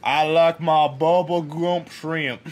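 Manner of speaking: put-on southern accent. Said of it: "That's how I learned how to talk southern".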